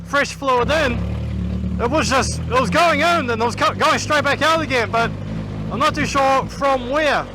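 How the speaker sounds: muffled inside a race helmet; talking through a closed helmet. Real, not acted. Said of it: "so I can talk to you properly".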